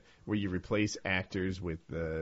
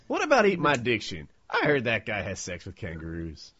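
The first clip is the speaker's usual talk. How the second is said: put-on hard Southern accent; 3 dB louder than usual. Co-host parodying his friend's question, hard Southern accent. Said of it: "hard Southern accent like he put with it".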